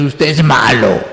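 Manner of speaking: lightly voiced toddler accusing a parent; imitating a small child. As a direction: mimic a little kid's blunt accusation. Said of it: "Los niños muy pequeños se atreven a decirle". (niño pequeño acusando al papá, imitado con ligereza)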